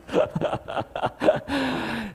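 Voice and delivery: laughter. Real, not acted. Laughing at own cheering story.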